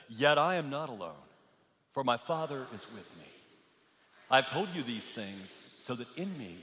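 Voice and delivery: congregation reading aloud together; many voices in unison. Real, not acted. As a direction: read it in unison as a group. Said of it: "So, so let's read it aloud together".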